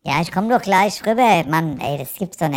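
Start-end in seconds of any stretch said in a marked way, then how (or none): 0.0-1.4 louder, higher call to the next room; calling back. Pretend. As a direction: shout back toward another room.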